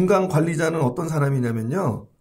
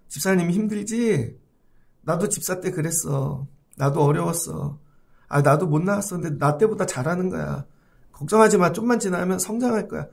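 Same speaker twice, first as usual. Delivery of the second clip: comforting elder. Retold or imitated. Senior deaconess comforting.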